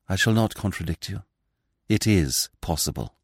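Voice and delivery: strained hoarse voice. Acted. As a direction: force it out hoarsely. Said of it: "in a hoarse voice".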